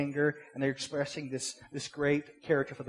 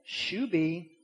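mild, politely measured shooing; a touch of courteous pleading; polite little request; 3 semitones higher, 5 dB louder, slower than usual. Acted. Man politely shooing a bee from his head, polite. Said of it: "doing a polite little".

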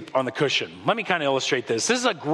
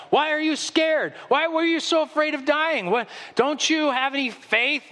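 much higher, wide-eyed questioning; mock bewildered Jesus; 10 semitones higher than usual. Jesus asks scared disciples, playfully incredulous. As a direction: ask it with playful disbelief. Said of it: "calm music".

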